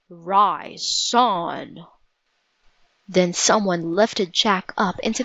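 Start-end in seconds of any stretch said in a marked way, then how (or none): 0.1-1.9 lightly deepened giant's command; a lightly voiced booming stranger; deep voice. A narrator's reading. Mysterious rescuer to Jack, a lightly deepened command. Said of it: "a deep voice say".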